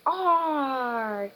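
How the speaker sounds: long drawn-out pirate "arr"; acted pirate call; pirate shout. A narrator's reading. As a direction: growl out a storybook pirate cry. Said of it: "came a shout".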